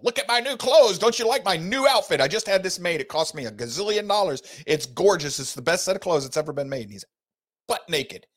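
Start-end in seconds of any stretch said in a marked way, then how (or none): 0.0-6.8 higher, boastful preening emperor; lightly voiced bragging emperor; vain emperor. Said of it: "He's telling his people".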